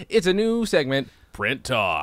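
big show-host intro; mock segment announcer. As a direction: announce it like a new radio segment.

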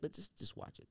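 whispered playful threat; half-joking whispered warning; mock warning whisper. Real, not acted. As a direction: hush it like a teasing warning. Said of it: "no disrespect".

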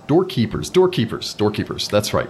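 lightly voiced welcoming host. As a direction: greet them like a showman. GM voices the greeter Falto.

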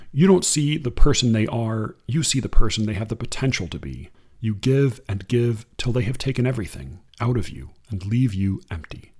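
unhurried reading of verse; poem reading. Acted. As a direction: read it like a poem to an audience. Reads a Kaur poem.

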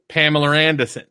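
Pamela Anderson in a light Maine accent, the ah moved; mild Maine vowels on Pamela Anderson. Shown as a demonstration. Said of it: "people in Maine would go".

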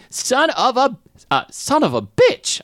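high, drawn-out curse in a put-on accent; loud, affected British-style accent. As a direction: repeat the swear in a hammy fake accent. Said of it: "I repeat in accent".

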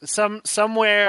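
lightly voiced Christopher Walken; Christopher Walken impression. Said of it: "Oh, no, Christopher Walken".

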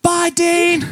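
high, drawn-out mock farewell call; mock yelled goodbye. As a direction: call it out high like the cleaner driving off. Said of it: "He yells out".

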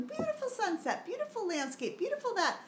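high, singsong gushing over every painting; mock cheery teacher. Host mocks teacher breezing past paintings, high singsong praise. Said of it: "they'd walk by everyone".

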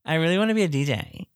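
light airy Anna Kendrick voice; Anna Kendrick impression. Shown as a demonstration. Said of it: "you sound exactly like her".

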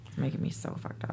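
stoned, unvoiced, fast mumble; stoner. Real, not acted. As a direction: breathe it out fast, half whispered. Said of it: "I'm a little stoned right now".

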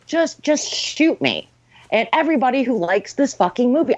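begging to be put out of misery; exasperated pleading. Retold or imitated.

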